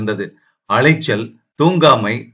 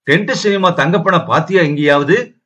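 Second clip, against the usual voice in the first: ordinary delivery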